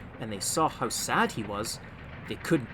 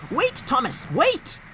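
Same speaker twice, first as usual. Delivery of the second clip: calling out; 13 semitones higher, 5 dB louder, slower than usual. A narrator's reading. Trucks calling after Thomas.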